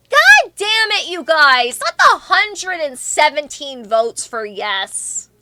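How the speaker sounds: loud, drawn-out mock exasperation; exasperated outburst. Real, not acted. Streamer scolding chat over the vote, playfully exasperated.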